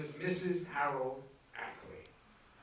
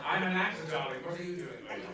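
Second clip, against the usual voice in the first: a laughing, lightly voiced smoothie; chat-up line tossed off with a laugh; mock party line; 4 dB louder than usual. To a stranger at a party, a mock smooth chat-up line. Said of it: "great opening line at a party".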